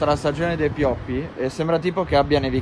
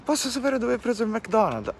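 lady asking; 10 semitones higher than usual. Retold or imitated. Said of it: "mi ha chiesto".

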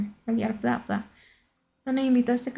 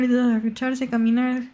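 normal talking voice

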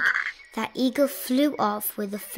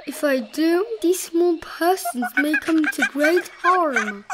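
higher and anxious; alarmed; 6 semitones higher, 5 dB louder than usual. A narrator's reading. Elephant fearing harm to small persons, alarmed. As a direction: worry over what might follow. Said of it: "Horton thought with alarm".

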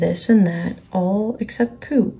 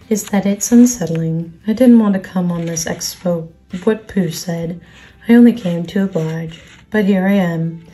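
Eeyore. Acted.

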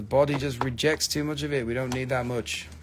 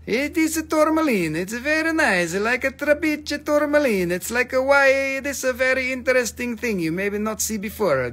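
playful sales pitch in a higher put-on voice; put-on seller voice; 9 semitones higher, 4 dB louder than usual. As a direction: ham up a pushy gem saleswoman.

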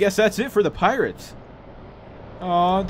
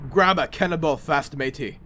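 lightly voiced pirate order, dropping on matey; a hint of buccaneer; 3 semitones lower than usual. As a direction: give the order as a casual pirate mate. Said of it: "that's not the voice".

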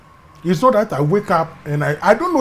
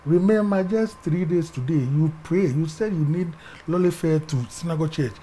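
hushed, calm voice of God; God's gentle voice; 3 semitones lower, 5 dB quieter than usual. Retold or imitated. God softly telling his son to choose. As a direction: speak softly, as God gently offering a choice. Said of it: "God said".

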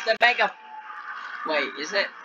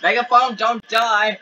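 desperate plea; 4 semitones higher than usual. Real, not acted. Host begging the dying Megaphone to live, high desperate plea. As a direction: beg the character to survive. Pleading for favorite creature.

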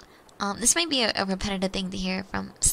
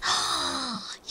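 big breathy inhaled gasp; long, audible intake of breath; delighted gasp. Real, not acted. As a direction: gasp in surprise at happy news. Reacting to a birthday in chat.

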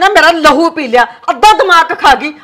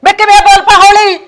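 loud, higher indignant comeback; louder defiant snap; angry retort; 5 semitones higher, 5 dB louder than usual. Acted. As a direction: throw his words back at him. Mother snaps back at son.

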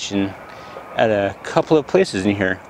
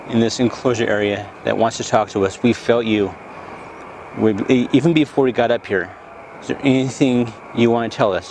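talking to a ghost. Acted. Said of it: "do an E V P session".

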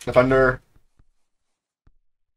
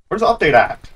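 mildly raised, insistent question; impatient demand; 3 semitones higher than usual. Real, not acted. Gamer asking about the missing update, impatient demand. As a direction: ask it with some impatience.

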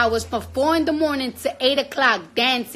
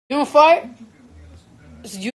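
loud, rising, incredulous; challenging viewers who claim not to fart, mocking; mocking challenge; 2 semitones higher, 5 dB louder than usual. Real, not acted. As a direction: dare them to deny it.

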